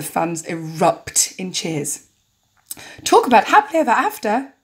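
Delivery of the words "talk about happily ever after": higher, singsong announcer delivery; deliberately cheesy game show presenter; bad host voice. Host lists prizes to contestants, bad presenter voice. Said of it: "he needs a bad voice".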